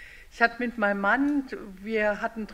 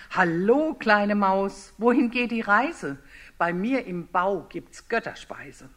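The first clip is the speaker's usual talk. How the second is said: louder, coaxing fox luring the mouse; a hungry fox sweet-talking its dinner; sly fox; 5 dB louder, slower than usual. Acted. Fox tries to lure the little mouse home, loud coaxing.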